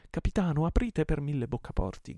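high, loud urgent demand; shouting. A narrator's reading. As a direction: shout through a barred door. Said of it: "gridarono tre o quattro voci". (grido imperioso e concitato)

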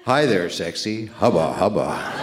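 a lightly put-on leering voice, slowing on hubba hubba; lecherous cartoon voice. A drawing of himself ogling his wife, lightly leering. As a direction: ham up a wolf-whistle come-on. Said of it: "with a voice saying".

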